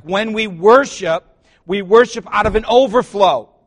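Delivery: big revival-style build; preaching at full force. Acted. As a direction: preach it out over the crowd. Preaching on worship.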